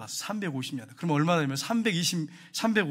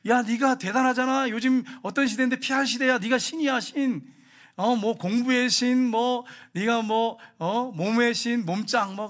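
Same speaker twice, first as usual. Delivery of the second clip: lightly voiced tempter, higher pitch; devil egging someone on; 3 semitones higher, slower than usual. Devil flattering a person into showing off, lively goading. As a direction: goad them with pumped-up flattery. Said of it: "근데 마귀는요".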